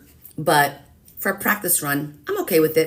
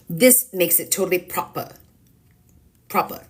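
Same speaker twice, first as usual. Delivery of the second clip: posh proper voice. Pretend. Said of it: "I have to hold this one up like this".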